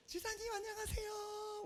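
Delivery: high, soft, drawn-out hello; acted greeting. Pastor greets church member at the clinic, sweetly high. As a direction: re-enact a slow, high-pitched polite greeting.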